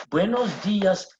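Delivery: "Buenos dias" with the weight on the I of "dias"; "dias" said DEE-as; stress on the I. Shown as a demonstration. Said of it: "meaning there is a stress on that".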